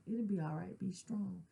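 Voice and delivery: softly repeating dad's words to self; soft self-reassurance. Real, not acted. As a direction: say it quietly to yourself, comforting. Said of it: "So I use his words in here".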